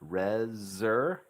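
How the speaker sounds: RESER- stretched, with a clear Z for S; slow teacher's RESER-; buzzed Z. Shown as a demonstration. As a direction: sound out RE-ZER, rising at the end. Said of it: "double it up".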